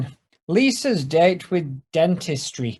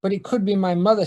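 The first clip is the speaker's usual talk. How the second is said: lightly voiced Ned; 5 semitones higher than usual. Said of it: "says Ned".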